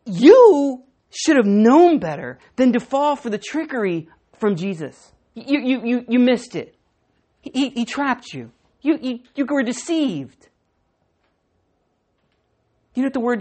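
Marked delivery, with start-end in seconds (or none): 0.1-10.5 slow, reproachful scolding; scolding Pharisees. Retold or imitated. Pharisees rebuking the temple guards, slow scolding. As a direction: wag a finger at the fooled guards. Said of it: "what the Pharisees are saying to them".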